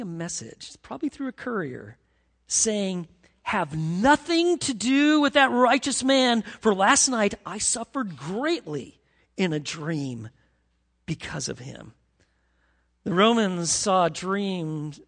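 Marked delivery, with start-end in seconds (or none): 3.4-11.9 urgent warning. Retold or imitated. Wife's urgent warning quoted.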